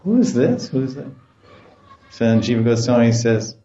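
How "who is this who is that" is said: high-pitched puzzled gopis, lightly acted; mock bewilderment. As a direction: ask each other in mild, high-voiced confusion. Gopis puzzled, looking at each other.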